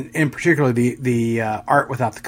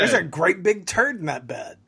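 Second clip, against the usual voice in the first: gruff drill sergeant voice; Sergeant Rock; 5 semitones higher than usual. Acted. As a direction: bark it like an army sergeant. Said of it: "you sound like Sergeant Rock all of a sudden".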